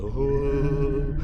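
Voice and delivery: long drawn-out hollow "oh" mimicking slowed laughter; stretched, held slow-motion hoot; imitated slow-motion laughing. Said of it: "laughing in slow motion".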